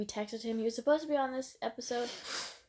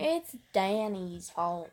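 put-on Australian accent; 2 semitones lower, much slower than usual. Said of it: "now you're doing Australian".

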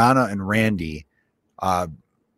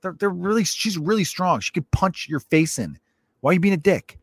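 much higher, baffled at his buddy; incredulous friend; 6 semitones higher than usual. Retold or imitated. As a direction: call out a friend in disbelief. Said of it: "And his friend's like".

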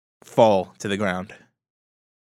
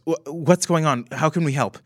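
put-on young woman; 5 semitones higher than usual. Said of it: "The young woman goes".

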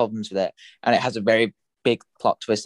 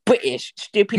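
put-on British accent; 10 semitones higher than usual. Mocking British character.

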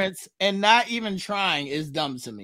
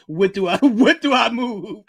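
laughing mimicry; 5 dB louder, slower than usual. Mocking her coming question while laughing.

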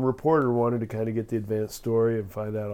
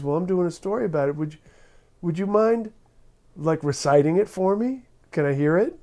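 eager reporter; 6 semitones higher, 4 dB louder than usual. Retold or imitated. Eager reporter voiced in joke.

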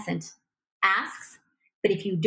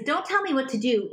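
higher, indignant snap; quoted as pushback, raised; defiant retort; 5 semitones higher than usual. Retold or imitated. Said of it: "your catch-all".

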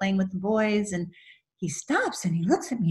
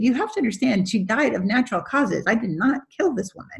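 laughing; 2 semitones higher than usual. Retold or imitated. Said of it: "laughing so hard because I said".

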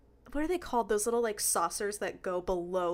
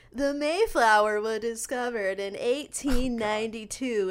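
narrator voice; 2 semitones higher, 6 dB louder than usual. Retold or imitated. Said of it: "it was like".

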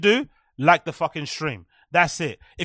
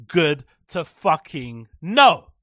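sarcastic; much slower than usual. Real, not acted. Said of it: "sarcastic close".

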